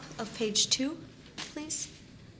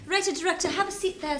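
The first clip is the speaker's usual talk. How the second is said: put-on charm; 6 semitones higher than usual. Director's put-on welcome.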